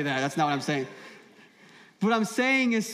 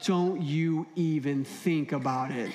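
silent warning; 4 semitones lower, slower than usual. Retold or imitated. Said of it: "in my mind, I looked at her and said".

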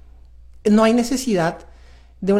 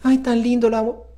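tender; 3 semitones higher than usual. Retold or imitated. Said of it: "tú miras a tu chiquita ... y dices".

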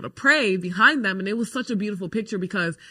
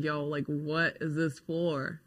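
nervous inner voice; 3 semitones lower, 6 dB quieter, slower than usual. Retold or imitated. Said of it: "And I'm like".

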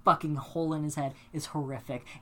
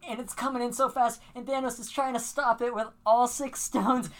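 rising higher line by line; getting carried away by the climax; worked-up retelling; 5 semitones higher than usual. Retold or imitated. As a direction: build the tension toward the hit. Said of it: "I'm getting real worked up right now".

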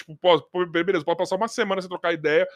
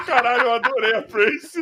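high laugh into a slow shout; 5 semitones higher, 3 dB louder, slower than usual. Real, not acted. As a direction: laugh out the words loudly. Laughs at the odd phrase.

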